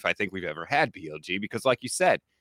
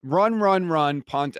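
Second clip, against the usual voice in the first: exasperated rant; 10 semitones higher, 4 dB louder than usual. Real, not acted. Host rants about Browns' playcalling.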